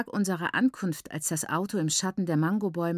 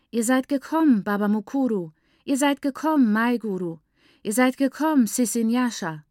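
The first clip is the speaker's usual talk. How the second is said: high, loud, delighted greetings called out; joyful welcome cries; 5 semitones higher, 5 dB louder than usual. A narrator's reading. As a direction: call out each name in happy welcome. Sisters greet arriving family joyfully.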